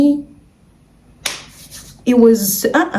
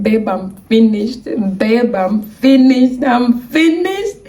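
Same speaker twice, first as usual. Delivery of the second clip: slow mock wail, climbing higher; retold tearful wail; 3 semitones higher, slower than usual. Telling boyfriend she is finished, mock tearful wail. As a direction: build a drawn-out, imitated crying complaint. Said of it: "I just already started crying".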